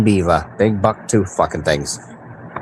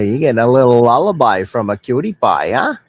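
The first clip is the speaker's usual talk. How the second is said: teasing Mainer talk; Maine accent. Shown as a demonstration. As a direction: tease him like a true Mainer. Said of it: "That's a true Maina talk there".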